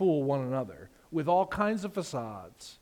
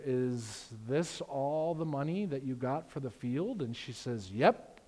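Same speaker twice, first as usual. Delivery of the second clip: grave Peter; 5 semitones lower, 5 dB quieter than usual. Retold or imitated. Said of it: "And Peter says to her".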